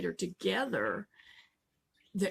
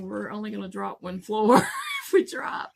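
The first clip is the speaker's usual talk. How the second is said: laughing scoff; 6 dB louder than usual. Retold or imitated. Amused thought about elevator drop.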